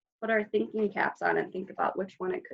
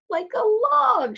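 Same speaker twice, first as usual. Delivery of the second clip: put-on high girlish voice; 13 semitones higher, 5 dB louder than usual. Griselda answers the king.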